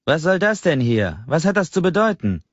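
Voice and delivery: high, loud indignant snap; shrill angry snapping. A narrator's reading. Angry customer snaps at the little shelves in outrage. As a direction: snap at the shop clerk in outrage. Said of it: "keift er".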